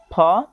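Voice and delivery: फ as "phuh", one short syllable; PH sound. Shown as a demonstration. Teacher listing joined-letter sounds, फ sounded out as "phuh". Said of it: "संयुक्त अक्षरों का उच्चारण".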